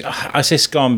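"scone" with short o, like "gone"; rhymes with gone. Shown as a demonstration. Defending a side in the debate, "scone" as skon. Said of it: "because G O N E is gone".

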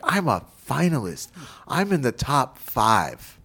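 mock child's happy disbelief; imitating a thrilled kid. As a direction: play back her wide-eyed excitement. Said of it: "And so she was so happy".

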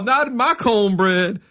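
high, slow mock chorus; group catchphrase. Storyteller mimics everyone backstage repeating the bit, high catchphrase. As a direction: stretch it out like a running joke. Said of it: "Like, we were all".

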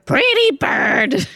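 high, loud, drawn-out gargoyle squawk; high creature voice, stretched words. Acted. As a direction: call out slowly like a delighted gargoyle. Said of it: "the gargoyle goes".

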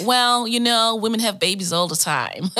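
mock-American, hammed up and not convincing; bad American accent. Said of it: "in my worst American accent".

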